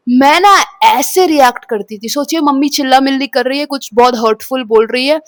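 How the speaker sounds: ordinary talk, nothing marked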